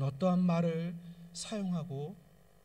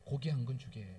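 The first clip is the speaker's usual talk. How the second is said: soft voice; 5 semitones lower, 4 dB quieter than usual. Retold or imitated. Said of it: "부드러운 음성으로 이렇게 이야기합니다".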